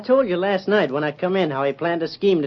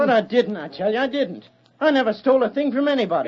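pitched-up pleading, words tumbling faster; desperate denial; 5 semitones higher than usual. Acted. Cole insists to the sheriff he took nothing, frantic and high. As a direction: beg them to believe you, panicked. Cole accused of robbing bank.

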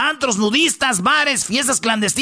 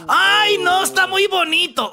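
mucho más alto y fuerte, falso halago; fingiendo ternura; 8 semitones higher, slower than usual. Retold or imitated. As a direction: finge que el bebé le encanta, muy agudo. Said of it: "Y dicen". (imitando a las señoras con voz aguda y exagerada)

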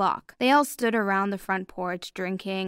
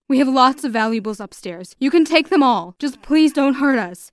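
loud, higher-pitched plea; pleading; 4 semitones higher, 9 dB louder than usual. A narrator's reading. Father begging masked robbers to spare the family, pleading. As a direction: plead urgently, voice lifted. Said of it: "he pleaded".

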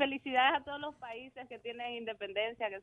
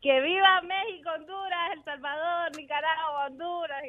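independence cry; 5 semitones higher than usual. Pretend. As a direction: shout out the cheer half-joking. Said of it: "Dame el grito de independencia".

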